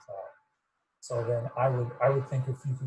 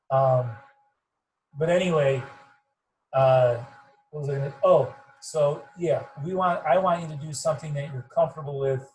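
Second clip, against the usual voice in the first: louder to get through a muffled mic; talking loud; 4 dB louder than usual. Real, not acted. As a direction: project for listeners in the other room. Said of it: "I'll make sure I talk loud though".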